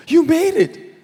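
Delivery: high-pitched amazed cry; excited shout. Acted. Old pastor amazed to find the robber in heaven, excited cry. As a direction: call out in thrilled disbelief. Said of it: "막 흥분해가지고 막".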